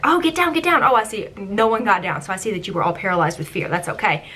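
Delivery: lightly performed skipper spiel; a hint of a tour guide playing it up; mock spiel. Skipper retelling her boat spiel to guests. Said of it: "part of my spiel was to say".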